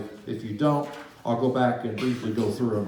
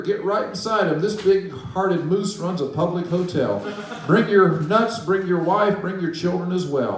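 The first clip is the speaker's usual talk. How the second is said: calling out; 4 semitones higher than usual. Acted. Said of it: "called the woodpecker".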